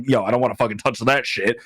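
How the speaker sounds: quick, light kangaroo voice. Retold or imitated. Narrator voices the kangaroos, quick kangaroo voice. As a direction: toss it off fast like a laid-back kangaroo. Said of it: "that's what kangaroos sound like in my brain".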